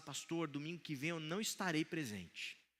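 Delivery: soft embarrassed murmur. Pastor retells an older church brother approaching him at the door; imitating soft, embarrassed speech. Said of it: "ele estava assim meio falando baixinho, um pouco envergonhado".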